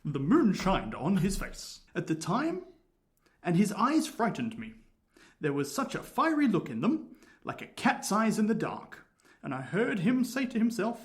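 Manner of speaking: attempted English accent, measured storytelling; Hugh Grant. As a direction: tell the tale in a tentative posh-actor English accent. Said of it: "he's got a Hugh Grant accent".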